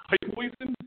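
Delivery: Hefeweizen with a hammed-up German accent, rising at the end; a playful try at saying Hefeweizen the German way; mock German accent. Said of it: "How was my German accent?".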